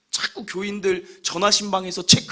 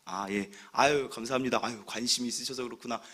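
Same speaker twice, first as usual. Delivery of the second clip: polite brushing off; 9 semitones lower, 8 dB quieter than usual. Retold or imitated. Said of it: "그냥 웃고 넘겼어요".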